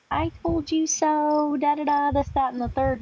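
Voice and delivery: mildly mocking, stretched-out taunt; mock gloating. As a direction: lightly imitate someone saying told-you-so. Mimicking gloating I-told-you-so people.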